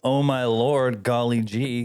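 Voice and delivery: put-on slow, wholesome gee-whiz church boy; vintage cartoon voice. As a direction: play the old-time innocent goody-goody, drawn out. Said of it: "my Christian boy can finally come out".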